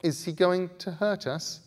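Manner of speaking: high, worried little question; scared girl. A narrator's reading. Scarlet whispering fearfully to Bod, high and scared. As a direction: ask it afraid. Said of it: "asked Scarlet".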